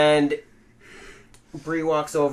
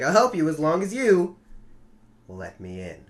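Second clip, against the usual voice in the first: imitated creepy promo. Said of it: "The way he said it this week, he was like".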